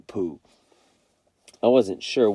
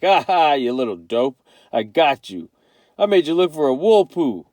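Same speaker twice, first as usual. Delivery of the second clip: imagined gotcha; 3 semitones higher, 5 dB louder than usual. Retold or imitated. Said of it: "say something like".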